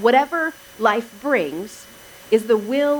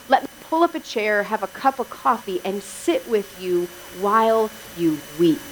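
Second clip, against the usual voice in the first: softer, lower toward the end; tender comfort; 3 semitones lower, 4 dB quieter than usual. Acted. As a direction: offer quiet company to someone grieving. Voicing a friend offering comfort.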